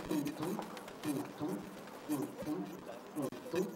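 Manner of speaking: soft, low tum-tum pulse; imitated heartbeat. Shown as a demonstration. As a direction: voice a steady heartbeat in quiet paired thumps. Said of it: "Cadê o som do coração?".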